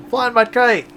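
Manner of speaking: joyful exclamation; excited. Real, not acted. Delighted at flying the kite.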